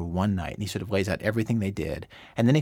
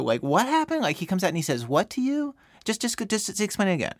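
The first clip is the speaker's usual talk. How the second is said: playing dumb; 11 semitones higher than usual. Shown as a demonstration. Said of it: "I act all stupid".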